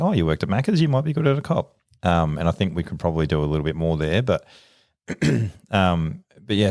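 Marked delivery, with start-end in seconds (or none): 0.0-1.8 much higher, sing-song mock of a careless recruiter; mocking how recruiters pitch the job to anyone. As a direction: send up the naive recruiter. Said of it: "we're just like".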